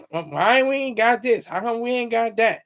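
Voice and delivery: lightly put-on complaining voice; caricatured grumbling; mock complaining. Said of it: "they complain about".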